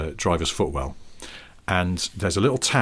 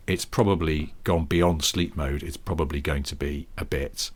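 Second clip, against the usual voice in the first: weary; 4 semitones lower, 5 dB quieter than usual. Retold or imitated. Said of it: "I had this sense of weary inevitability".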